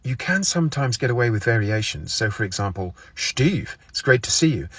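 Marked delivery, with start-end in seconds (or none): 3.1-4.7 "Steve," said as "Shteve" with a sh sound; variation on the name. Shown as a demonstration. Greeting Steve, "Steve," said as "Shteve". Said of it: "origins are Scottish or you have a lisp".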